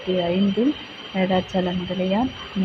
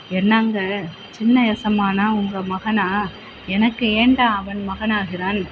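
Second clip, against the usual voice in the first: louder, indignant back and forth; heated exchange; 4 dB louder than usual. Acted. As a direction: bristle at the insult. Master and servant argue.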